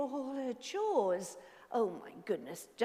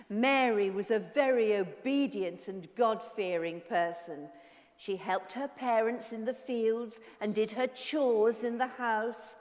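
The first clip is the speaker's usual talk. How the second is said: story narration. A narrator's reading. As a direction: read it like a children's story.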